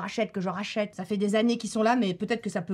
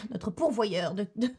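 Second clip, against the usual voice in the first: en riant. Real, not acted. Joke about her beauty "dealer.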